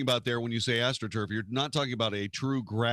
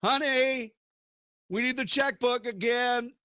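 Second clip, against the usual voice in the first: high, sheepish ask for money; sheepish plea to wife; 11 semitones higher than usual. Retold or imitated. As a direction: voice a meek husband asking his wife. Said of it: "You can say this".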